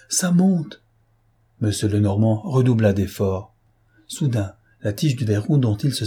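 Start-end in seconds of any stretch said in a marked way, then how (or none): 0.1-0.8 higher, choked cry falling off at the end; strangled scream of terror as the water climbs. A narrator's reading. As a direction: force it out through a tight, panicked throat. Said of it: "cria Gourel d'une voix étranglée".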